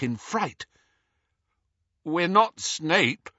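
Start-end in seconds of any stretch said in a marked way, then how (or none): 2.0-3.3 slow, higher-pitched croak. A narrator's reading. Harry answering the voice in the dark, croaked. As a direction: croak it out slowly. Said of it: "croaked Harry".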